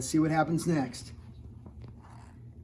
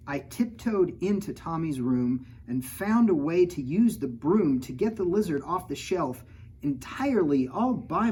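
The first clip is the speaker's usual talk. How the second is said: lively picture-book read-aloud; reading to children; 3 semitones higher than usual. A narrator's reading. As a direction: read the rhymes to a kid audience. Reads rhyming picture book.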